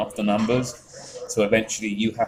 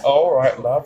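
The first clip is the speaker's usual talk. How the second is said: imitating man; 4 semitones higher, 5 dB louder than usual. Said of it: "he went".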